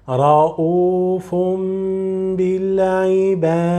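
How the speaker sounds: رؤوف بالعباد with the tanween as meem; رؤوف بالعباد read with iqlab; model recitation. Shown as a demonstration. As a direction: recite it joined.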